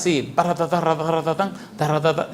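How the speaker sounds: mock rattled-off talk. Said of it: "¿Le gustaría una amistad así?".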